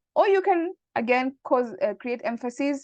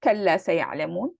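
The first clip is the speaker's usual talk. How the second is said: quoting Quran; 3 semitones lower, much faster than usual. Shown as a demonstration. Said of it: "repeating this entire sentence".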